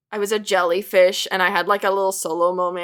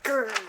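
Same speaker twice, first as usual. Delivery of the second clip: mock growl; 5 semitones higher than usual. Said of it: "I gave him a scratch 'cause I was like".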